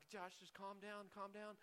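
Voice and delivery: slow, soft soothing voice; God calming him. Retold or imitated. God telling Josh in the median to calm down, slow and soft. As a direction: settle him down gently and slowly. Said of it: "He's like".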